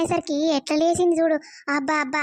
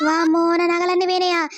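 shocked gasp; 5 dB louder than usual. Acted. Mother jolts awake over jewels.

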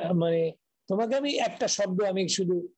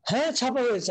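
imitating mild irritation, pitched higher; higher, mock-vexed assertion; retold annoyed insistence; 4 semitones higher than usual. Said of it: "মানে উনি বিরক্ত হলেন।".

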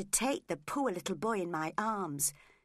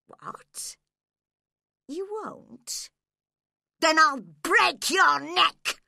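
slow, much louder threat to break his neck; sudden violent threat; 8 semitones higher, 11 dB louder, much slower than usual. Acted. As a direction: explode from coaxing into a roar. Hindley turns violent on the child.

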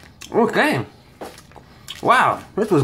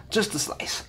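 soft whisper to herself; 3 semitones higher, 7 dB quieter than usual. Real, not acted. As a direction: whisper it under the breath. Whispered while taking pizza.

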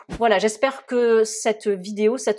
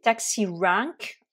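taxi rank said the British way, open a in rank; crisp British taxi rank; British accent; much slower than usual. Shown as a demonstration. Teacher demonstrating British accent. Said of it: "avec l'accent britannique".

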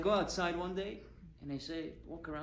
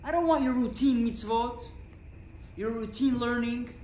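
voicing God's longing; 5 semitones higher, 5 dB louder than usual. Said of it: "And you were saying".

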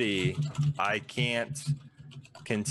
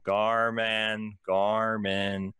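slow, drawn-out gnome merchant pitch; a salesy gnome savouring every word; lightly voiced gnome proudly pitching his shop; gnome shopkeeper; slower than usual.

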